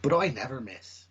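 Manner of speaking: lightly imitated bad Irish accent; dreadful Irish accent. Film hero boasts about his aim, dreadful Irish accent. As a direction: put on a hammy Irish accent. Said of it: "had a dreadful Irish accent going".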